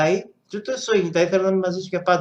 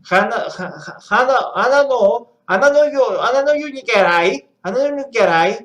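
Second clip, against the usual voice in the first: loud, higher attempt at a Japanese line; mock Japanese; 4 semitones higher, 5 dB louder than usual. Shown as a demonstration. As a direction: push the phrase out, stumbling on it. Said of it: "Έχω την προφορά".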